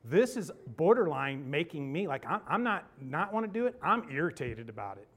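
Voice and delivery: retelling how mad he was, half-laughing; irritated rant. Retold or imitated. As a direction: vent the irritation. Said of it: "I was mad".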